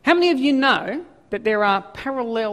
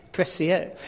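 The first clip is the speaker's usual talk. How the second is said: lower-pitched attempt at a French accent; imitation French accent; 4 semitones lower, 5 dB quieter than usual. Shown as a demonstration. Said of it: "my imitation French accent".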